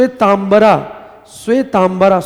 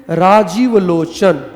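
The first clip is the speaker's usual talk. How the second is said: slow, drawn out; 3 semitones lower, much slower than usual. Shown as a demonstration. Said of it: "देखिए".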